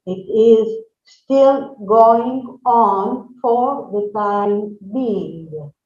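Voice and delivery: slow, deliberate teacher modelling; slow model sentence. Shown as a demonstration. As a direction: say it slowly so students can repeat. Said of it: "We say".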